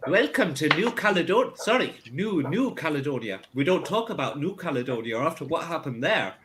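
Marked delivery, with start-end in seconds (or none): 0.1-3.4 put-on Scottish accent slipping. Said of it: "that was Irish".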